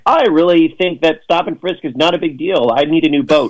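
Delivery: lightly voiced bought-off politician, pitched a bit up; mock bribed Democrat. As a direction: play a paid-for endorser, tongue in cheek. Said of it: "all these Democrats who are like".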